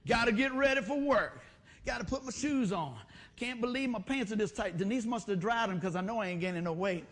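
loud exasperated griping; acted irritated complaining while getting ready; mock morning grumbling. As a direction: stomp through a hammed-up morning rant. Acts out grumpy start to morning.

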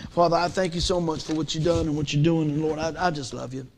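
heartfelt preacher's prayer; closing prayer. Acted. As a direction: lead the church in prayer.

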